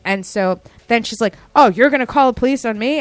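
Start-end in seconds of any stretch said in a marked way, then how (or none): 1.5-3.0 mock scoffing customer. Customer scoffs at police threat.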